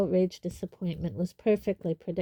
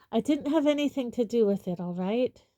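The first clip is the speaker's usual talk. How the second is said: defensive; 3 semitones higher, 3 dB louder than usual. Acted. Defensive student denies.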